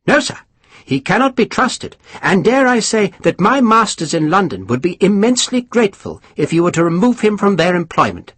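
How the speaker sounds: high, mannered lord spreading gossip; high aristocrat voice. Acted. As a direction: lift the pitch, savour the scandal. Pumphrey urges.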